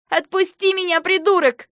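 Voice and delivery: high, very loud angry scream; furious yell. Acted. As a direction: yell at a brother to let go. Sister yells to be released. (яростный пронзительный крик)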